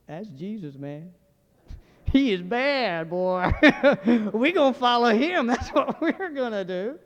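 drawn-out, hammed-up awe through laughs; laughing admiration. Disciples marvelling at Jesus after the calm, laughing hammed-up admiration. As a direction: crow it slowly, laughing between phrases.

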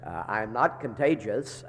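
muffled, stuffed-up sinus voice; inside a barrel. Real, not acted. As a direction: sounds like talking from inside a barrel. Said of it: "I know I sound like I'm in a barrel somewhere".

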